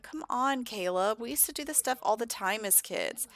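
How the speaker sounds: a touch of sibling wheedling; coaxing sister. Acted. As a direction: coax a reluctant brother. Sister coaxing her agitated brother.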